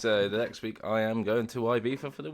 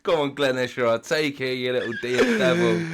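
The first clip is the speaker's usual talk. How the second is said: mock cheering; 2 semitones higher, 4 dB louder than usual. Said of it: "I was going".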